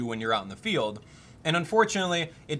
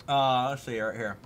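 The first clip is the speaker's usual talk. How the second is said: mouth full; 3 semitones lower than usual. Real, not acted. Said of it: "Sorry to talk with my mouth full".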